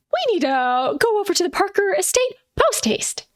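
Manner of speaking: urgent. Acted. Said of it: "Willa whips over to Josh and she says".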